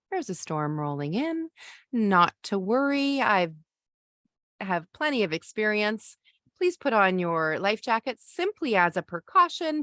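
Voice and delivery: steady, unhurried reassurance; a confident skipper soothing the passengers; lightly voiced calm, reassuring captain. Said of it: "anchor into your calm".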